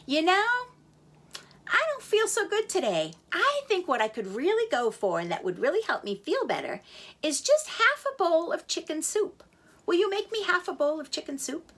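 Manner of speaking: a king sighing for soup; lightly voiced sick king. Sick king asks his chef.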